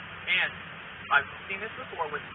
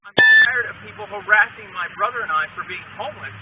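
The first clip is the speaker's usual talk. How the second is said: angry outburst; 4 semitones higher, 11 dB louder than usual. Real, not acted. Angry complaint to officer.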